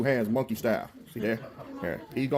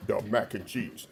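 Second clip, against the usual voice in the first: deeper voice attempt; 3 semitones lower, 5 dB quieter than usual. Shown as a demonstration. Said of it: "will that deepen up".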